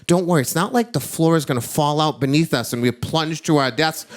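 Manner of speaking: high-pitched, overeager reassuring; frantic reassurance. Retold or imitated. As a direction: talk her down, pitch riding up. Father frantically reassuring crying daughter.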